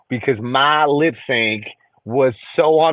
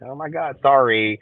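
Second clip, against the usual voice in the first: flustered apology; 4 semitones lower, 5 dB quieter than usual. Real, not acted. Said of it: "Oh, shit".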